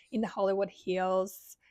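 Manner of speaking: Southern accent. Real, not acted. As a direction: say "Hollywood Hills" with a light Southern American accent. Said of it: "with a really Southern accent".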